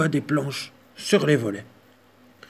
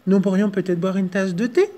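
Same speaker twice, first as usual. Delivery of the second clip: a lightly higher mouse voice; timid mouse; 5 semitones higher, 3 dB louder than usual. Acted. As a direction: ask sweetly as the little mouse. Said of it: "proposa la souris".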